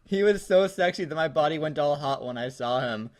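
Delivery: a hint of a sportscaster read, loudest at the start; mock commentator delivery, fading out; John Madden. Friend reads the fanfic like a football announcer, light mock. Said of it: "I'm gonna read it like John Madden".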